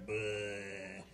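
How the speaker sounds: low, soft frog noise; frog's bleh. Acted. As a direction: let out a quiet, idle frog bleh. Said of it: "He just sits there and goes".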